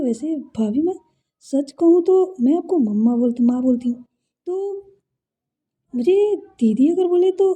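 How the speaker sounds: sweet and guileless, like a little sister; innocent. Acted. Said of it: "बहुत मासूमियत से बोलती है".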